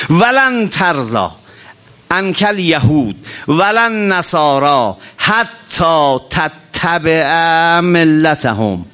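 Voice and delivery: slow, drawn-out chanted verse; slow Quranic chant of the verse; Quran recitation. Acted. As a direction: intone the verse slowly, stretching each word.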